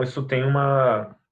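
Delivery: ordinary delivery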